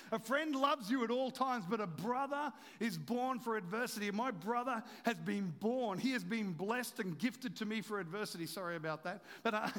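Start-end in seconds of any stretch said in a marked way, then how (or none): 0.1-8.5 raised, rhythmic scripture delivery; emphatic preaching. Real, not acted. Preacher applying Proverbs to his brother, emphatic preaching. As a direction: drive the verse home.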